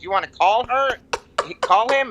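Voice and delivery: urging her to call; a hint of an eager son; son on the show. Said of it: "he's like".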